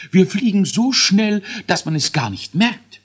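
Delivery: high, squeaky scientist dwarf counting down; a fussy little boffin announcing launch; learned dwarf voice. A narrator's reading. Dwarf scientist starts the rocket countdown, high and squeaky. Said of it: "erwiderte Elisius".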